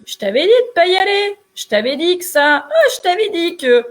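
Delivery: acted reproachful inner nag; nagging inner voice. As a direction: scold like a voice saying I told you so. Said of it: "t'écoutes la petite voix qui te dit".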